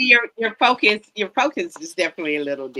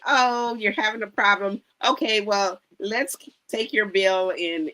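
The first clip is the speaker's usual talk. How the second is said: higher-pitched, mock helpful clerk; acted kindness; 6 semitones higher than usual. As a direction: play at kindly helping a customer. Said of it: "kindness could be".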